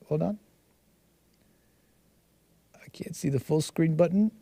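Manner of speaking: real whisper while fiddling. Real, not acted. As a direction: whisper to yourself under your breath. Fiddling with the screen.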